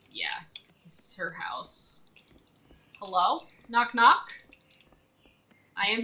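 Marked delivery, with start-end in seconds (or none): 0.1-2.0 whispering. Real, not acted. Sneaking near her house.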